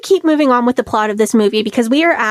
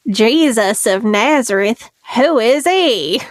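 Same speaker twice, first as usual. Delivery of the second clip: put-on Southern accent; slower than usual. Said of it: "my best Southern accent moment".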